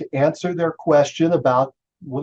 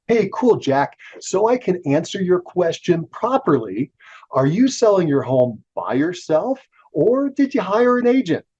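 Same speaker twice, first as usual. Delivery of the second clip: friendly sales call; 5 semitones higher than usual. Shown as a demonstration. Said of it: "and I'm gonna say".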